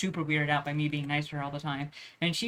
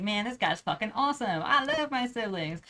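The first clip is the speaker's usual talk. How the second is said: mock sudden fondness; 4 semitones higher than usual. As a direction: gush in retold delight, pitch rising. Voicing sudden fondness for siblings.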